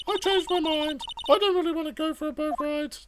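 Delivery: put-on chirpy young sidekick; young girl voice. Maya's lines, higher girl voice.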